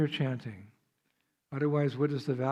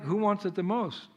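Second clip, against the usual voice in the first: higher, lightly voiced duck figure; mother duck asking; 5 semitones higher than usual. Mother duck offering bread to ducklings, higher playful asking. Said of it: "She was like".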